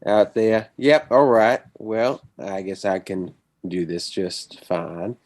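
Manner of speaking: put-on slow, eased-in Southern accent that lands near Tennessee; Texan accent, slowed. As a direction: ease into a slow Texas drawl. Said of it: "you sound like you're from Tennessee".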